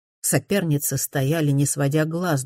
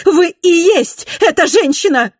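very high, loud jealous cry; shrill-free loud exclamation of jealousy; jealous outburst; 10 dB louder than usual. A narrator's reading. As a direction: explode with jealousy. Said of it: "в приступе ревности".

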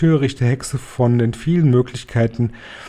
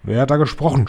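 angry shout; 3 semitones higher, faster than usual. Acted. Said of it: "schrie sie".

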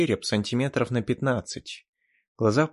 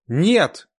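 loud, higher cry; shout; 7 semitones higher, 9 dB louder than usual. Acted. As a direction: yell to stop him. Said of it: "закричал я".

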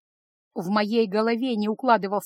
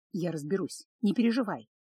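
softer, hoarse and held back; 3 semitones lower, 5 dB quieter than usual. Acted. Ravshan promising to handle it, hoarse and quiet. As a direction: rasp it out low with suppressed anger. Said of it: "хрипло произнёс он".

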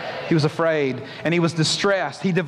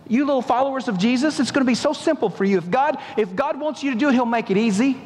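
mock sugary reassurance; 4 semitones higher than usual. Mocking what we tell Christians.

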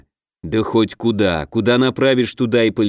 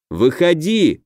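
called-out challenge, higher; shout; 4 semitones higher, slower than usual. Acted. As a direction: call him out into the dark. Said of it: "крикнул я".

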